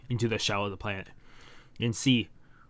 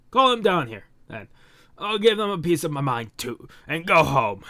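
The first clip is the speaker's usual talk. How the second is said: irritated demand; 5 semitones higher, 4 dB louder than usual. Acted. Hero demands the parents come.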